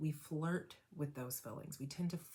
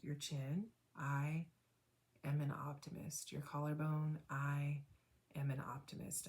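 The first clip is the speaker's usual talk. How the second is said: guided tapping affirmations. Acted. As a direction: coach a listener through tapping points, calmly and gently. Leads second tapping round.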